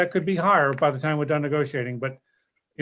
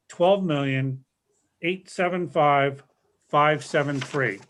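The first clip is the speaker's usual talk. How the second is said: slow figures, spaced out digit by digit; measured dictation pace with short pauses; slow, for note-taking; slower than usual. Real, not acted. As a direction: read the numbers slowly so they can be written down. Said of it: "repeat the numbers one more time slowly".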